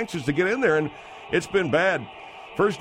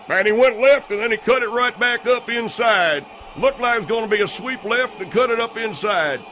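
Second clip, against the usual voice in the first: excited; 4 semitones higher than usual. Acted. Excited replay commentary.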